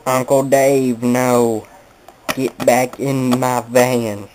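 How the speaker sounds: mild mock yell, slow on the last line; half-hearted hollering after the truck; a light, slowed-down mock scream; retold scream. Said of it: "she started screaming".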